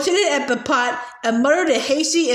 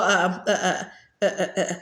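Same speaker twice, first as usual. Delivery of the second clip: choked gasping; 6 semitones lower, 5 dB quieter than usual. A narrator's reading. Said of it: "spluttered and gasped for breath".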